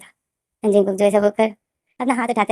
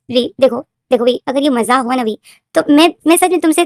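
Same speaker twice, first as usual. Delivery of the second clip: frantic pleading; 3 semitones higher, 6 dB louder than usual. Acted. Fiancée frantic on the phone.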